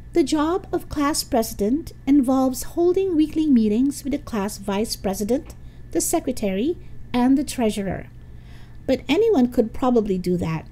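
Rhonda, candidate with lofty plans. Acted. Rhonda answers the first debate question, high-voiced and self-assured. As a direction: pitch it up, declaring grand plans. Story figure Rhonda speaking.

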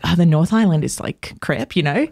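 put-on New Zealand accent. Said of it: "a better New Zealand accent".

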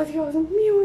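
high, loud shrieked cry; retold shriek. In the packed salon, shrieking in despair. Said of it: "yo chille y chille".

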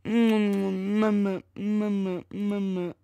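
soft whimpering mama; mock baby. Shown as a demonstration. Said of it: "what I be doing".

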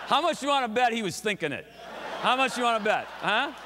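words pushed out through real laughter, pitched high; giggling conspiratorially at the crowd; laughing while talking. Real, not acted. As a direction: chuckle through the tease.

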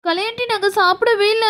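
mildly whimpered denial; tearful child. Acted. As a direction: plead innocence with a put-on sob. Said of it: "அழுதுட்டு இருக்கீங்க". (லேசான அழுகைக் குரல்)

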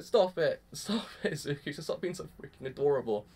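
laughing protest, softening as it goes; fond mock scolding. Fan telling Izuku to stop being adorable, fond mock scolding.

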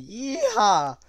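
long, high cowboy whoop; party yell. A narrator's reading. Someone in the living room at a rowdy party, whooping loudly. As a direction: holler it loud and very high. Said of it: "someone in his living room yelled".

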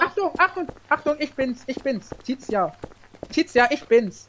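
high urgent calling. Real, not acted. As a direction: call out urgently. Calling out not to shoot.

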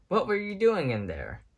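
high, surprised ask; puzzled and relieved; astonished question. A narrator's reading. Woody finding Ham in the backpack, high surprised question.

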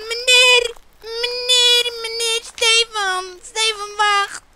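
luid en hoger, angstig roepend; angstig roepen. Acted. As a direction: roep hem wanhopig terug. Calling after the man. (wanhopig roepen naar meneer)

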